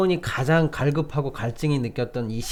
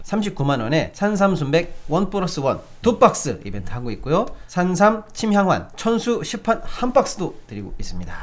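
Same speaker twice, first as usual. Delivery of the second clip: upbeat sales pitch read; hard sell ad. Acted. Reads a live ad.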